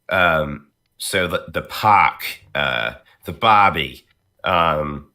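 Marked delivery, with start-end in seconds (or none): 1.0-4.1 Australian accent. Shown as a demonstration. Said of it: "when I'm doing Australian".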